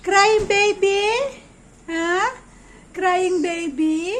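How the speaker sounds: drawn-out teasing question. Real, not acted. Mother to her crying baby, teasing. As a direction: tease the little one, stretching the words.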